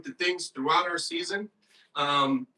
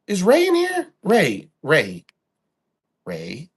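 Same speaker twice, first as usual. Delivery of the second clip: yelling at Ray; 8 dB louder, slower than usual. Real, not acted. Yelling at Ray about the sold Origin, loud and angry. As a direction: shout across the room to confront him.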